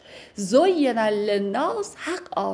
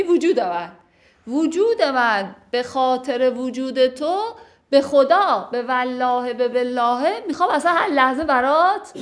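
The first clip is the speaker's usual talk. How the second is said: swearing devotion; 2 semitones higher than usual. Acted. Teacher plays the wife swearing she would die for him. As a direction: pile up the oaths urgently.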